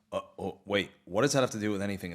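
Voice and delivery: a dim henchman catching on late, low and quiet; confused Krunk. Retold or imitated. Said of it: "the actual Krunk goes".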